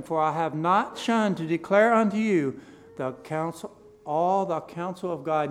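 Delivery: loud, declaimed Bible reading; projected pulpit reading voice; scripture reading. Acted. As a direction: read the verses out firmly to a congregation. Reads scripture aloud to congregation.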